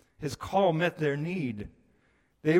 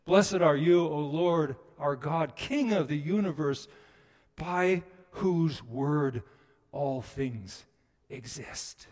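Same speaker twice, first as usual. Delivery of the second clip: reverent prayer; 5 dB louder, slower than usual. Retold or imitated. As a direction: lift the words to heaven in prayer. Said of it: "or if they're eating fish".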